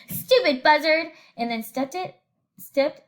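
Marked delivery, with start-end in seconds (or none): 0.1-1.1 cheerful insult. Acted. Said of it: "cheerfully said".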